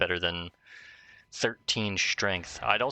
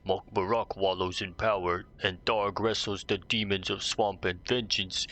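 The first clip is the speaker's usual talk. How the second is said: ogre voice. Acted. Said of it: "I was giving him an ogre voice".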